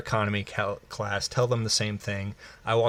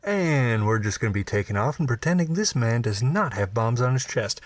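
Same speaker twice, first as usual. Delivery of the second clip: lightly voiced pilot on the cabin speaker; pilot announcement. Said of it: "the pilot said this audibly through the speaker".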